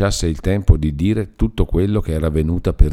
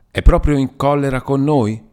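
pleading niece; 8 semitones higher, 3 dB louder than usual. A narrator's reading. Niece pleads with angry uncle.

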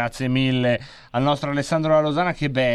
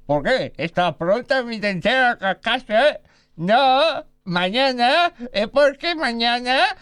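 put-on Spanish accent; 8 semitones higher, slower than usual. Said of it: "odontotecnico da Malaga".

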